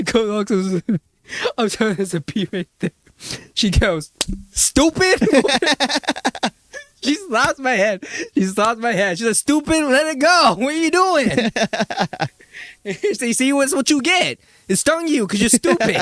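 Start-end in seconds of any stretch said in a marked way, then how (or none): 0.3-2.9 mock Asian accent, higher and fast; lightly put-on Asian accent, mom insisting. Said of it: "my mom's Asian". 4.5-5.2 put-on high, loud scolding "Stupid!" in Asian accent; Asian mom accent. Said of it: "my mom's Asian". 9.4-11.3 high, loud mock Asian scolding; Asian mom accent. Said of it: "my mom's Asian". 13.1-15.9 high, loud scolding in mock Asian accent; Asian mom accent. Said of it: "my mom's Asian".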